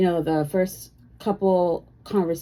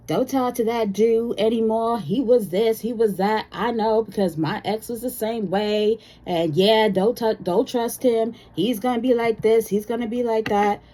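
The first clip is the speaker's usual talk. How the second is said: gossipy friend; 5 semitones higher than usual. Retold or imitated. Imitating a bad-advice friend.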